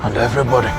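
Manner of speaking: put-on an old dad waking up the house; African dad voice. Old father's voice, calling for son.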